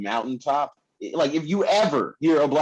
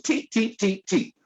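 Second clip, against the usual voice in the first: imitated squeak noise; 7 semitones higher, slower than usual. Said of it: "it goes".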